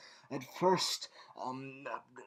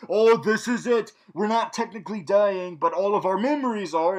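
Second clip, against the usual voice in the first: higher, hammed-up hero lament; mock whimpering; 4 semitones higher, 5 dB louder than usual. Reviewer mocking protagonists before the timeline change, mock whimpering. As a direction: imitate heroes feeling sorry for themselves. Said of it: "protagonists whimpering and being like".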